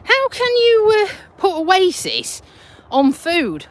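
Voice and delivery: high-pitched, mildly indignant scolding; mock telling-off. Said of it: "someone told me off".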